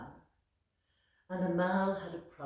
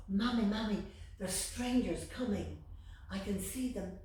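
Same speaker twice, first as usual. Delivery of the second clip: put-on urgent child; 4 semitones higher, 3 dB louder than usual. Child warning of strangers.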